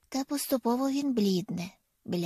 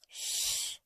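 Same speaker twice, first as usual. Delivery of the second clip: a soft voiceless shh; shushing; 7 dB quieter than usual. A narrator's reading. Noah hushes his little sister with a soft shh. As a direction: hush her with a quiet shh. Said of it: "шикає той".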